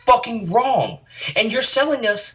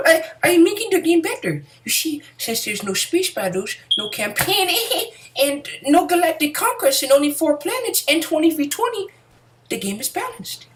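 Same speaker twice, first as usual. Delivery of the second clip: high, giggling corporate voice; mock EA laughing; 9 semitones higher than usual. EA exec laughing off the missing features. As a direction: chuckle through the excuses.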